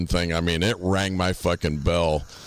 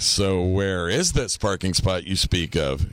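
slow, mock-careful question; careful answering. New hire asking boss which parking spot, carefully. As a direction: draw it out as if treading carefully. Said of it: "I'm answering everything carefully".

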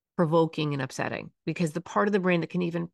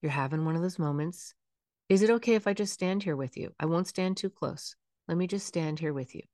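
neutral, soothing. Shown as a demonstration. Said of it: "In a very neutral tone".

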